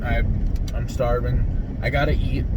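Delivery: chewing between words; talking through a mouthful; mouth full. Real, not acted. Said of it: "sorry I'm eating".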